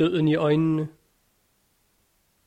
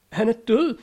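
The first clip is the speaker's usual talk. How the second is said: Karin screaming; 7 semitones higher, faster than usual. A narrator's reading. Karin screaming that he is dead. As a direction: scream it out in horror. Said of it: "skreg hun".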